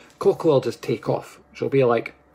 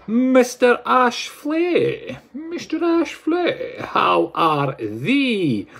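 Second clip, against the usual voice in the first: calling out; 8 semitones higher, much slower than usual. Acted. Calling out to viewer.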